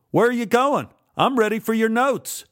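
loud, high taunting shout; angry challenge. A narrator's reading. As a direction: yell it at someone backing away. Angry confrontation, sword pointed.

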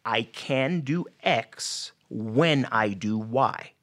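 each word set down slowly and clearly; slow deliberate affirmation. Shown as a demonstration. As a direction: spell out the new phrase like a coach, slowly. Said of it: "you say".

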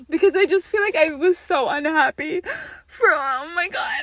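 tearful with laughs breaking in; laugh-crying through it. Real, not acted. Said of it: "I'm half crying and half laughing".

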